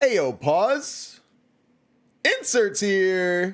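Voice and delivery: cracking voice. Calling a pause in the middle of a story, with a voice crack. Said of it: "A little bit of a voice crack there".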